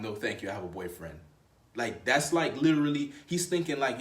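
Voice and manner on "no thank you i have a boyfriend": low, softer dismissive retelling; quieter mock refusal. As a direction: toss it off as a trivial line. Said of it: "what a huge mistake for her to say".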